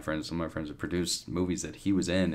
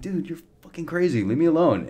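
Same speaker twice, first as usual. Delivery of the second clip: higher, heated retold shout at the other driver; retold angry yell; 9 semitones higher, 6 dB louder than usual. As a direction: hurl it back like road rage, half-acted. Retelling shouting at Shia in traffic.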